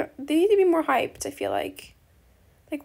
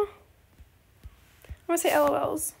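L O Ls said very slowly, each letter drawn out; lazy playful drawl on L O Ls; much slower than usual. Real, not acted. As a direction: stretch it out playfully.

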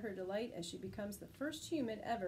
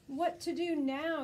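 loud panicked cry; yelled; 6 semitones higher, 5 dB louder, slower than usual. Acted. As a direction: shout over the crowd. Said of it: "yelled a voice above all".

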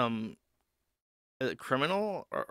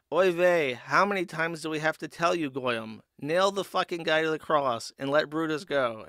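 mock Jewish accent; 3 semitones higher, 5 dB louder than usual. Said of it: "all the Pharisees are like".

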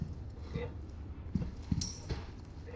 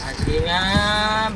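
startled cursing; 5 semitones higher, 6 dB louder, much slower than usual. Real, not acted. Cursing after jumpscare.

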